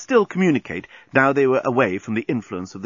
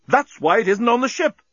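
high, emphatic cry; amazed exclamation; 11 semitones higher, 3 dB louder than usual. A narrator's reading. Bolfas realising what the shard was, excited exclamation. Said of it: "exclaimed Bolfas".

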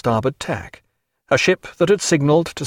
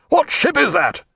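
high-pitched roaring challenge; roared hail; 13 semitones higher than usual. A narrator's reading. Captain challenging strange ship in confusion, roared high. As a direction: roar it over the confusion. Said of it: "he roared into the confusion".

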